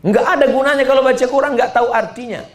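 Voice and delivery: high, loud, fast lecturing ustadz; mock stern preacher. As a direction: scold the crowd like a strict preacher. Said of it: "ada ustadz yang ngomong".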